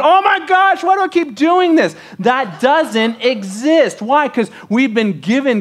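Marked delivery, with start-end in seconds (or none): 0.0-2.0 mock guilt-ridden lion, much higher and squeaky; guilty lion. Lion eating a gazelle, fretting aloud, hammed-up and much higher. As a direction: ham up a lion fretting over its meal. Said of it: "some lion eating a gazelle going".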